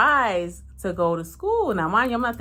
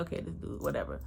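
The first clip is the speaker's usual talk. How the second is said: dismissive thought; 2 semitones lower, 11 dB quieter, faster than usual. Retold or imitated.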